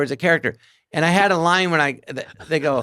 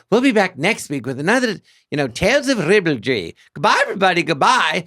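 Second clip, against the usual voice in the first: Evelyn Quince sign-off; 3 semitones higher than usual. Retold or imitated. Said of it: "I go".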